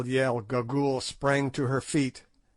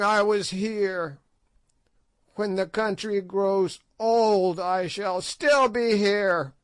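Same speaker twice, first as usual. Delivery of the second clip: ancient witch boasting; 10 semitones higher, 5 dB louder than usual. A narrator's reading. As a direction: threaten them with your endless age. Witch boasts of her age.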